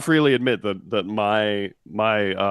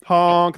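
loud single horn honk; one goofy truck horn blast; silly clown; 6 semitones higher, 5 dB louder than usual. Pretend. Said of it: "That's my impression of the truckers".

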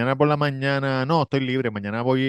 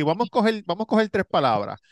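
higher, mocking imitation of a lazy songwriter; mocking rival's lyrics; 6 semitones higher, faster than usual. Rapper mocking his rival's songs, raised mocking voice. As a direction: lightly sneer the dumb lyrics in a raised voice. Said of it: "y le dijo".

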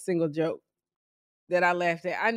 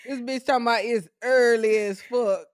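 loud teasing; 2 semitones higher, 5 dB louder than usual. Real, not acted. Teasing co-host, loud laughing.

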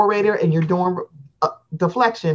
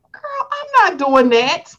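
mock Baltimore girl; 8 semitones higher than usual. Voicing Baltimore people's reaction.

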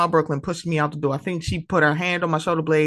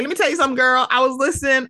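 high-pitched imitation of a chatty friend; Samaj; 8 semitones higher, 3 dB louder, much faster than usual. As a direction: mimic him leaning in to dish, higher. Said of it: "he'd be like".

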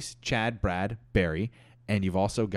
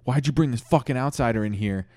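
mildly irritated, higher complaint; pissed off; 4 semitones higher than usual. Acted. The room confronting Brad over the outsider, mildly pissed off. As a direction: act a touch of indignant anger. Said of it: "really pissed off".

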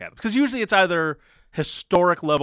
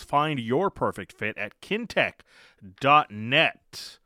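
radio host intro. Acted. Show intro and sponsor read.

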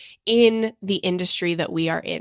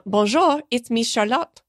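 put-on French accent; 4 semitones higher than usual. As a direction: read the username like a hammed-up French girl. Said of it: "I'm so sorry that I did that accent".

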